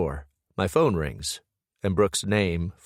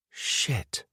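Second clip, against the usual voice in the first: whispered curse; 4 semitones higher, 5 dB quieter than usual. A narrator's reading. Dreading at the door.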